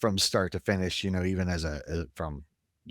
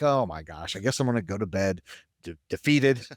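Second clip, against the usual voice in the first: defeated. Retold or imitated. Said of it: "But I was just defeated".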